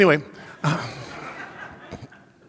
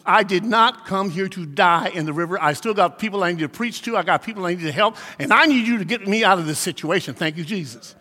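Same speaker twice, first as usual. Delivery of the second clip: calm prayer. Retold or imitated. Preacher retelling the calm words he said, not a scream. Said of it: "I did not yell. I did not scream".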